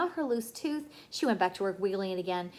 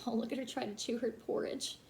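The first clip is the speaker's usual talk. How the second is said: laughing aside; 6 dB quieter than usual. Real, not acted. Reader laughs at Sister chewing.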